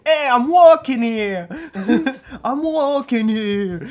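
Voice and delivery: slow loud New York yell; shout. Retold or imitated. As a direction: yell at the taxi, drawn out. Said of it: "il fait".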